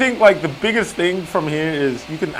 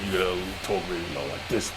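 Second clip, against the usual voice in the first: low, soft villain voice; bad guy voice; 9 semitones lower, 13 dB quieter than usual. Shown as a demonstration. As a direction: drop into a low villain rumble. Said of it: "It is so hard to do a bad guy voice".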